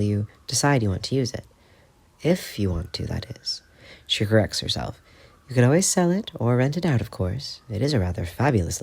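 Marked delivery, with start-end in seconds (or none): 4.1-5.0 whispered aside. Acted. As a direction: breathe it out unvoiced.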